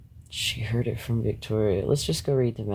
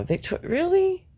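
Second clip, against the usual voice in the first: incredulous mock quote; 8 semitones higher than usual. Mocking the other woman's claim.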